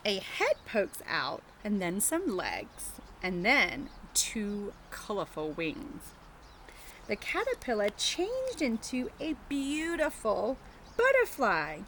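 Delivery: slow, storybook read-aloud; reading to children. Acted. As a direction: read it gently to little kids, taking your time. Reading picture book to children.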